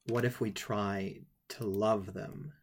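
put-on slow, hushed and tender, a light child's voice; innocent child's question. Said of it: "with all the innocence of a child".

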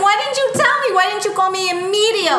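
a mother hit by the news all at once; alarmed mother. Acted. Mother on the phone, shocked her daughter hid the injury, alarmed shrill questions.

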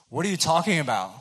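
high, loud eager question with a laugh; excited. Retold or imitated. Running up to the preaching guy, excited. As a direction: burst in, thrilled and curious.

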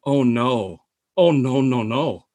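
sinking mock dismay; Downey. Colleague hearing of the charity gig, mock dread. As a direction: imitate a man dreading what comes next, voice dropping. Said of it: "And Downey was like".

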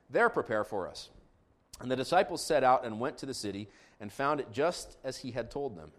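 measured, formal Bible reading; scripture reading. Real, not acted. Pastor reading Mark fourteen to congregation, scripture reading. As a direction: read the narrative out phrase by phrase.

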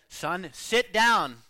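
the father's second, harder warning; a father repeating the order, slow and firmer; sterner still. Retold or imitated. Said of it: "Then the father said".

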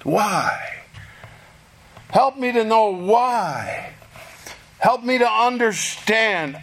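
pleading questions put to God; humble, inquiring. Acted. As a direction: ask humbly, like someone praying to understand. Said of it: "but in a humble, inquiring voice".

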